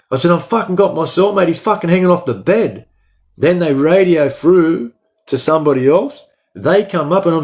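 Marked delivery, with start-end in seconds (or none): 0.3-2.9 raised, urgent pitched-up reply; retold frantic yell. Inmate yelling back to guards while holding cellmate, high and urgent. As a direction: shout it while holding him up.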